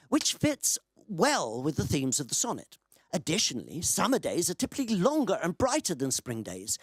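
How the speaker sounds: emphatic, measured read-out of a written answer; recited chatbot answer, lightly performed; reading aloud. Acted. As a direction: read it out like a formal explanation.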